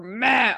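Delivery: short, blunt meh sound; mock grunt. Shown as a demonstration. Coach demos a vague feeling as a grunt. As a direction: toss out a dismissive meh. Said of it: "we use words like".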